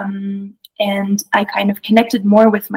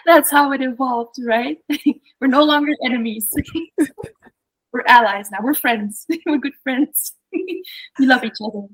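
laughing; 4 semitones higher than usual. Real, not acted. Guest laughing through her answer.

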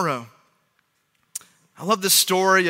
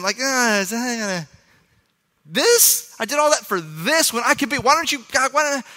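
whiny complaint. Retold or imitated. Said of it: "struggling with his attitude".

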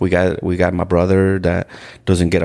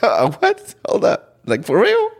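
higher, retold shock; stunned disbelief; 12 semitones higher than usual. Guest recalling her pregnancy and wedding news, retold shock. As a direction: replay the jolt of hearing the news.

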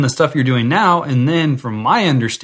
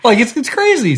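still laughing; 13 semitones higher, 5 dB louder than usual. Real, not acted. Laughing after jar joke.

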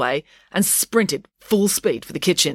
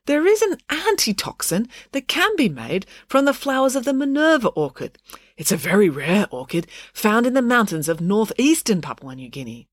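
Dad, earnest scientist; 6 semitones higher than usual. Acted. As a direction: explain the remedy carefully.

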